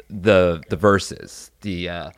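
usual speaking voice

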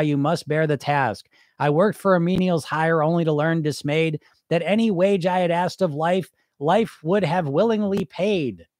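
measured recital of a poem; earnest poetry recital; poem reading. Acted. Reads a poem aloud.

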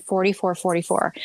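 hushed whisper of the number. Real, not acted. Host reveals eerie number to guest, whispered. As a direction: breathe it like a secret.

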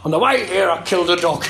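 bad mock-gentleman impression; lightly voiced genteel speaker; Bram. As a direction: drop it in politely, as a put-on gentleman. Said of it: "he would talk like a gentleman".

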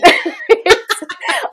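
embarrassed laugh. Real, not acted. Laughs mid-answer.

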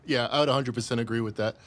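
talking while still wheezing; wheezy, catching breath between words. Real, not acted. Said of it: "You're still wheezing".

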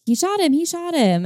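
mock him in a high, girly squeal; mocking girl's voice. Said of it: "he mimicked me in a girl's voice".

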